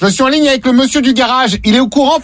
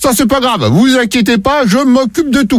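gruff lady voice. Acted. Prank caller voices garage lady.

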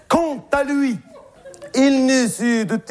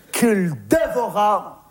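slow dramatic telling; slower than usual. Shown as a demonstration. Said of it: "repeated slower".

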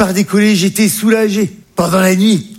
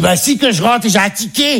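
imitated mother; 4 semitones higher than usual. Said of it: "Bah elle dit".

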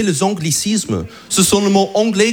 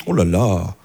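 mocking friends; 13 semitones lower than usual. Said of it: "tout le monde me dit".

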